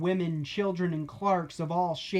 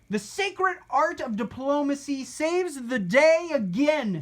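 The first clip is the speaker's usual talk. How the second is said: higher, lightly bright chime; chiming in; 9 semitones higher, 6 dB louder than usual. A narrator's reading. Steve chiming in to his friends, higher and upbeat. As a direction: pipe up cheerfully. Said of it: "Steve chimed".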